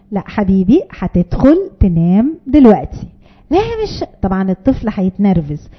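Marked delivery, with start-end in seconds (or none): 0.1-3.1 low, slow, steady "هتدخل تنام"; calm firm parent. Shown as a demonstration. Mother calmly tells refusing child to go to bed, low and steady. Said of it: "لا تتراجع". 3.5-4.0 put-on whiny child. Child getting upset.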